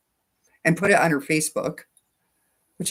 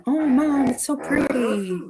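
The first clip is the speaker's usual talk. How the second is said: daughter's gushing; 8 semitones higher, 4 dB louder than usual. Retold or imitated. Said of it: "was like".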